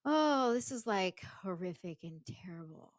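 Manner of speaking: mock exclaim. Shown as a demonstration. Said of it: "it's not just like".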